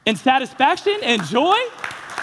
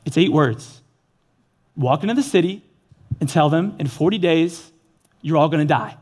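voice of God; 6 semitones lower than usual. Retold or imitated. God gives Jonah the message.

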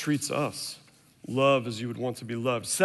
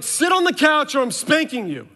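much higher, louder shouted warning; retold angry threat; 12 semitones higher, 6 dB louder than usual. Dad threatening his son with a spanking, shouting. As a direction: bark the ultimatum at the boy.

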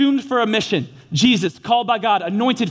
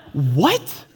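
baffled what; 7 semitones lower than usual. Retold or imitated. Jonah hears the cow moo.

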